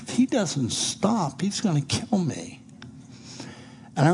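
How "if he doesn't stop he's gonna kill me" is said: quiet inner dread. Retold or imitated. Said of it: "I was saying to myself".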